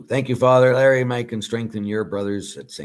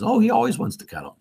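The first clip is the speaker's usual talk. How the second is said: much higher, louder cooing mock voice; imitating Diane; 11 semitones higher, 6 dB louder, faster than usual. Priest mimics the dog's carer gushing about cuddles, high mock coo. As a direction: coo it like a doting dog owner. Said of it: "like Diane says".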